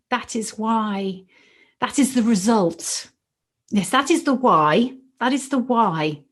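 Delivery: moved teacher speaking from the heart; emotional. Real, not acted. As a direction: let real emotion swell through the words. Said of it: "gosh, I'm gonna get emotional".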